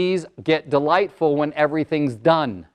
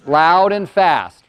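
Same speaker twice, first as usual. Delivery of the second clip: each word drawn out and weighted, "Loud and fast" said slowly; slow stressed answer; 4 dB louder, much slower than usual. Shown as a demonstration. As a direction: spell out "Loud and fast" for the class. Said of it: "Remember, I said loud and fast".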